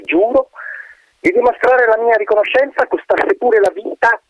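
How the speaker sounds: high, airy, solemn wind voice; wind spirit swearing. Acted. Trapped wind swears loyalty to the colonel, grand. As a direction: swear it grandly, eager to please.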